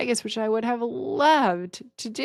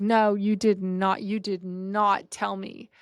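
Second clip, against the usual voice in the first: slow, emphatic mock-mad denial; retold anger; slower than usual. Trump denies she told him, retold anger. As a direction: imitate an angry boss, word by word. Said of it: "He got immediately mad".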